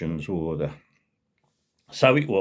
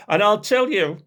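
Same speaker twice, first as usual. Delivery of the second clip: high, slow, louder pompous boast; louder posh bragging; 10 semitones higher, 4 dB louder than usual. Retold or imitated. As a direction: show off even louder. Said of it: "And louder still".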